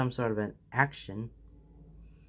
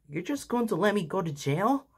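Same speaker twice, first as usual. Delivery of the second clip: screaming; 8 semitones higher than usual. A narrator's reading. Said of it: "screamed Midoriya".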